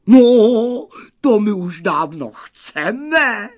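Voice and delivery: high, loud, eager wolf yell; enthusiastic cry. A narrator's reading. Wolves begging for a trip to the moon, enthusiastic cry. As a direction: burst out with delighted eagerness. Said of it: "vykřikli nadšeně vlci".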